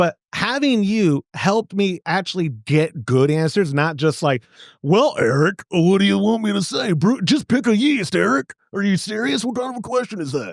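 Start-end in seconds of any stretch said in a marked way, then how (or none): 4.8-10.5 goofy, silly put-on fatherly voice. Thanking the listener for good answers, the speaker voices an unhelpful reply, imitating his pop. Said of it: "doing your pop, weren't you?".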